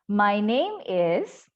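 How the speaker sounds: "My name is" very slow, "name" lifted, "is" dropping; "is" falls, drawn out for students to copy; falling intonation. Shown as a demonstration. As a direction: stretch "name", then step down on "is". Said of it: "turun ya".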